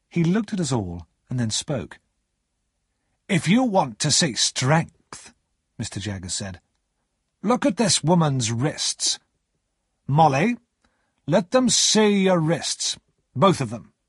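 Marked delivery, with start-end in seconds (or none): 3.3-5.3 slow, higher, weighty announcement; deliberate, commanding character voice; commanding lawyer. Acted. Jaggers commands the room, showing off. 7.4-13.9 slow, higher, weighty announcement; deliberate, commanding character voice; commanding lawyer. Acted. Jaggers orders Molly to show wrists.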